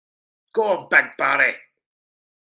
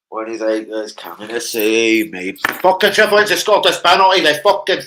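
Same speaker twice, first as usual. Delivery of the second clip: louder excited rant; 6 semitones lower, 7 dB louder than usual. Real, not acted. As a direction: rant about the penalty. Excited about penalty.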